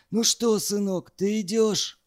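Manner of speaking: a touch of a barked call. A narrator's reading. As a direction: call roughly into the room. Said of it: "рявкнул в проём комнаты".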